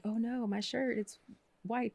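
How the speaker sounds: high-pitched, whiny mock dismay; high mock panic. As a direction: squeak it out like a tiny disaster. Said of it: "I'm like".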